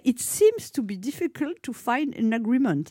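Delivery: slow English with a heavy French accent; hammed-up French accent in English, slowly. Shown as a demonstration. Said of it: "avec mon magnifique accent anglais".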